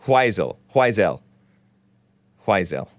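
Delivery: "Huizel" said as hwai-ZEL; trial pronunciation. Shown as a demonstration. Host testing a corrected name, trial pronunciation. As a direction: try out "Huizel" with a breathed hw and long i. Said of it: "I'm not gonna say it".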